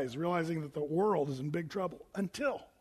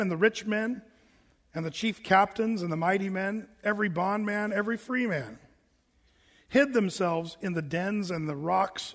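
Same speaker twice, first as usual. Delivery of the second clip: measured, deliberate Bible reading; scripture reading. Acted. Pastor reading Revelation to the congregation, measured scripture reading. Reads the Bible verse aloud.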